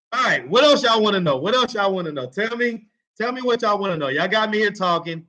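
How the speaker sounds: muffled, as if through a hand. Real, not acted. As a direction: talk with a hand over your mouth. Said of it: "I'm sorry if it's muffled".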